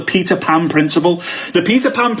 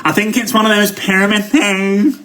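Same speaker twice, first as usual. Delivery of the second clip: sceptical prospect; 4 semitones higher than usual. Retold or imitated. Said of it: "They say".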